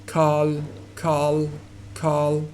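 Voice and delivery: "Carl" ending in a dark "ull"-like L. Shown as a demonstration. Teacher drills the word for learners, dark L ending "Carl". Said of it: "you would pronounce it dark".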